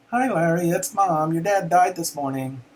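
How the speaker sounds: high, loud, cheery sing-song; mother's sing-song voice. Retold or imitated. Son imitates mother breezily announcing dad's death, sing-song. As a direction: imitate mom's breezy, happy-go-lucky tone. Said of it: "It was that same voice".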